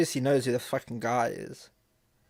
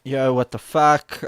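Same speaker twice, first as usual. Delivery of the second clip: much louder and slow, reading out an angry text; loud outraged read; 2 semitones higher, 12 dB louder, slower than usual. Acted. Streamer reading out the angry text to chat, loud outraged delivery. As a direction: belt out the message like you're outraged.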